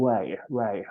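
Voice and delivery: "value" said without any R sound. Shown as a demonstration. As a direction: model "value" carefully with no R in it. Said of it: "มันไม่อ่านออกเสียงตัว R". (ออกเสียง "value" ไม่มีเสียง R)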